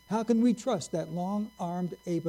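slow, drawn-out scornful jab; mocking sneer. Preacher quoting a rival's slur, slow and scornful. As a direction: drag out each word like an insult. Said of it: "A phrase that came up constantly".

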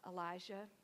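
soft, slow and low; tender reassurance. Acted. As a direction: say it slowly, with quiet care. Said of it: "God might as well have said".

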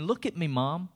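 milk the pain for attention, half-hammed; attention seeking. Preacher mocks a self-pitying Jesus. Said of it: "Jesus wasn't saying".

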